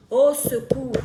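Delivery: loud, emphatic appeal; cry for help. Real, not acted. Streamer appealing for African youth, loud cry for help. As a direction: call out loudly for help.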